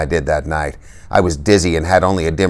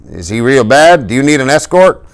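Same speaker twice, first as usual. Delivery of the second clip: higher, louder cop turned helpful; concerned cop; 8 semitones higher, 4 dB louder than usual. A narrator's reading. Cop offering Dally an escort, concerned. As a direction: sound suddenly helpful and concerned. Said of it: "The fuzz changed his tone".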